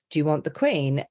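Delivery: lightly voiced royal British RP; a hint of regal RP accent; the Queen. Shown as a demonstration. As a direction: do a royal RP demonstration. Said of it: "that's how she talks".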